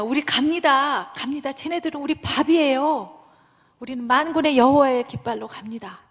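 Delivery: rally the people, fearless; bold declaration of faith. Retold or imitated. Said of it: "믿음의 말을 했잖아요". (담대한 믿음의 선포)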